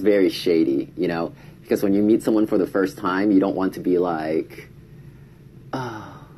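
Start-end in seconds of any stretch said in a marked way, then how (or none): 5.7-6.2 soft, haughty oh yes; mock aloof. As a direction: sound too good for them. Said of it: "you're too good for them".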